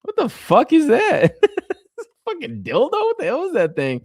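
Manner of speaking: high, loud, laughing what-the-fuck; laughing disbelief. Retold or imitated. Reliving seeing the horn accessory, laughing and high. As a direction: crack up retelling first seeing it. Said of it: "I was like".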